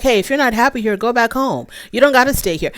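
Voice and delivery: lightly voiced husband, dismissive; imitating husband. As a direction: toss it off like the fed-up husband. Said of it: "he's like".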